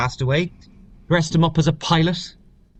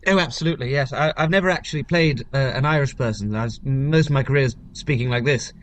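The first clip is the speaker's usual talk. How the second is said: lightly put-on posh English accent; a touch of posh English theatre accent. Shown as a demonstration. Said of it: "put on a posh voice".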